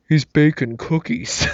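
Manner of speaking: slow mock stage whisper from the back row; lightly imitating a guy trying to whisper; a hint of the moviegoer whispering to his friend; loud-whispering moviegoer. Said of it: "really deep, uh, throaty kind of a voice".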